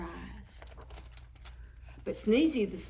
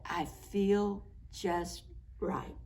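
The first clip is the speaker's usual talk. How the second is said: soft slow whisper; contented whisper; 7 dB quieter, slower than usual. A narrator's reading. The happy snowman sighs he feels just right, slow whisper. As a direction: breathe it out, fully content.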